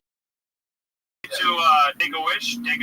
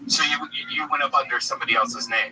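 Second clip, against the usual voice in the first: lower, more level repeat of "you went up under somebody else's name"; repeated on request; 10 semitones lower, 4 dB quieter than usual. Real, not acted. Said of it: "Come again?".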